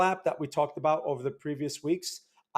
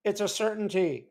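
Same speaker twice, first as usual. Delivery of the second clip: small, higher mousy imitation of Saylor; light mousy Saylor impression; little mousy voice; 4 semitones higher than usual. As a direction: squeak it out like a timid little man. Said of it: "as he says it in his little mousy voice".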